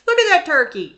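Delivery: imitating mother. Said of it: "she would say".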